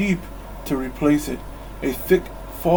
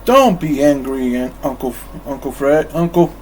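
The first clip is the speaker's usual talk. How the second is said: charming plea; 4 dB louder than usual. Acted. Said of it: "Fred said charmingly".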